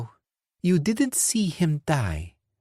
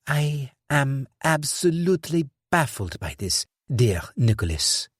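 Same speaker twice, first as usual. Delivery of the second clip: regret and cynicism; 8 semitones higher than usual. Acted. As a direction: sigh with weary scorn. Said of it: "heavy sentiment of regret and cynicism".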